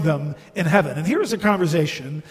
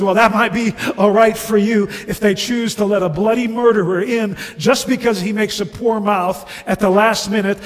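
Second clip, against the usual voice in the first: fast, loud, higher-pitched tirade; outraged ghost; 4 semitones higher, 6 dB louder, faster than usual. Acted. Ghost resenting a murderer's place in heaven, outraged. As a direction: pour out the grievance indignantly.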